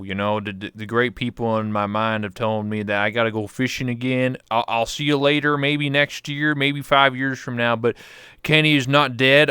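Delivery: lightly voiced hillbilly farewell; Kenny K Kona. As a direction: promise to return, hillbilly bravado. Kenny character says goodbye.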